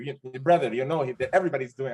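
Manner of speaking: put-on lightly done German accent, quick at the end; a loose, self-mocking German accent impression; bad German accent. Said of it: "he said it with a German accent".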